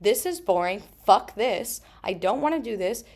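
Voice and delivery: put-on mildly petulant child voice; lightly voiced cross child; mad inner child. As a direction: fume like a bored kid. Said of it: "through hot through the rage, and she's like".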